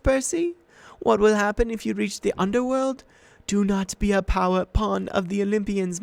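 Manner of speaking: high, loud, honeyed persuasion; tempting monster voice. A narrator's reading. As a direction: talk him into surrender. Medusa tempts Percy.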